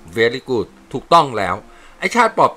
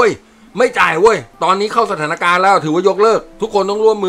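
loud, higher quarrelling soldier voices; rowdy soldiers bickering; 8 semitones higher, 5 dB louder than usual. Acted. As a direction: squabble like rough army buddies over money. Soldiers bicker over card debt.

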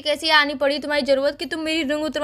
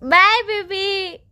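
drawn-out bye; 2 semitones higher, much slower than usual. Acted. Drawn-out sweet goodbye.

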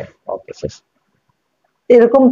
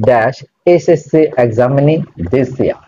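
slow dictation; much slower than usual. Shown as a demonstration. Teacher reading sentence slowly.

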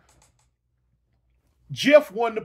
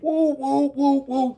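mock woofing; 4 semitones higher, slower than usual. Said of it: "he went to woofing".

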